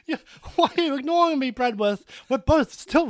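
high, whiny ghostly complaint; ghost wife voice. Acted. Dead wife's ghost nagging Bradworth, high whine. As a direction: plead like a haunting jealous wife.

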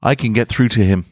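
a little voice pleading its case; tiny voice. Acted. Small Thelenos insisting to the archangel, high and tiny. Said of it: "A tiny voice".

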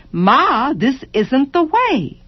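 put-on child whining to mother; child's complaint. A narrator's reading. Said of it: "child complaining again".

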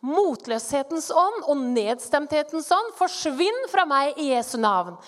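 firm, forceful command to a spirit; commanding rebuke. Retold or imitated. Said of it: "Så sier jeg litt sånn hviskende". (myndig, kraftfull befaling)

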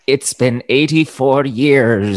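slow, lightly voiced old woman reminiscing; a hint of the old Titanic lady, slowed down. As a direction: drag it out like a frail old lady remembering. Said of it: "I kind of feel like, uh, the old lady from Titanic".

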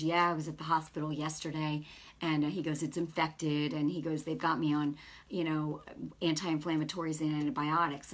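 low-pitched retold young man; lightly voiced clerk. Voicing the clerk in a retelling.

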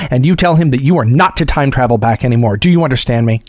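a touch of a stern Starfleet officer; stern scolding. Retold or imitated. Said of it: "completely drop the accent".

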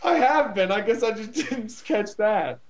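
high, giggling through the words; laughing. Real, not acted. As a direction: still cracking up, trying to talk. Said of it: "Jack is not amused right now by this".

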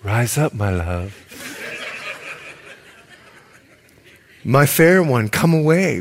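tender lover's call, breaking into a laugh; laughing romantic reading. Shown as a demonstration. Preacher imagining the lover at the window, laughing through it. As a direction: croon it, then crack up. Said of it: "just imagine this guy looking through the line".

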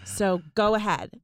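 put-on British girl's accent; earnest appeal in a British accent. Shown as a demonstration. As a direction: do a British girl pleading to listeners. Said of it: "Here, I'll do one for you".

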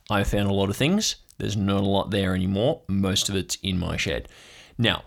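a paranoid uncle working himself up; conspiracy uncle. Acted. GM plays conspiracy uncle Marv.

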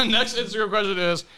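laughing through the words. Real, not acted. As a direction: giggle while reading it out. Laughing while reading question.

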